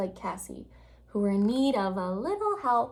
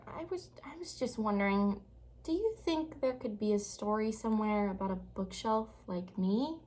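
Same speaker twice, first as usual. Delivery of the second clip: shyly; 6 dB quieter than usual. Acted.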